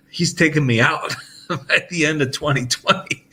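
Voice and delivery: chuckling through the words, pitch lifted; laughing it off. Real, not acted. Telling his wife about God's deadline, laughing. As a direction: laugh nervously as you say it. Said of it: "I'm laughing about it".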